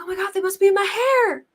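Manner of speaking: mock frantic, hands in her hair; retold freak-out. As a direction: herself in a panic about ticks in her hair. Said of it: "freaking out, like".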